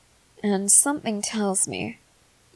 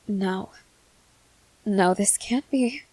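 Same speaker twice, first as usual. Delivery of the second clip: half-whispered dismay; hushed disbelief. Acted. Student finding the phone gone, hushed disbelief. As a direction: let it slip out under your breath.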